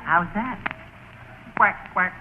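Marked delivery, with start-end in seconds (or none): 1.6-2.1 quacking like a duck. Acted. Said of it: "you have to quack like a duck".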